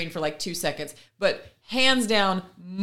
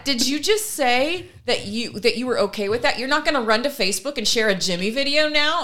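mock baffled husband; 5 semitones higher than usual. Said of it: "the husband goes".

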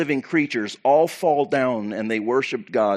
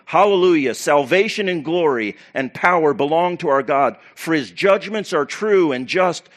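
a raised, ringing shout of praise; loud crying out; 3 semitones higher, 4 dB louder than usual. Acted. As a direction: cry it out like a great multitude. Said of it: "loud voice of a great multitude of heaven crying out".

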